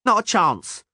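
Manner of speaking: high, indignant little voice; protesting gnome. A narrator's reading. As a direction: protest it, offended. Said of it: "Percival protested".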